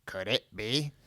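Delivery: mild awed gasp. A narrator's reading. Door voice recognising a celebrity, mildly gasping. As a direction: wonder it with a touch of gasping. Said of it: "A gasping voice came over".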